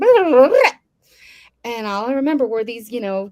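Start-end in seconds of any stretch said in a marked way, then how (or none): 0.0-0.7 very loud, high, breakneck rattled-off babble. Showing how fast they used to talk: talking very fast. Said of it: "I talk so fast".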